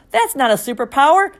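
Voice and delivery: yelling. A narrator's reading. Relatives shouting at the boy, loud yell. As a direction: yell it in protest. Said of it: "everyone started yelling at once".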